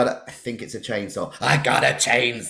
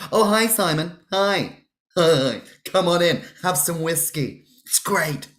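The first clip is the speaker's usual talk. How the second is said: lightly voiced host; 5 semitones higher than usual. Playing Bateman greeting victim.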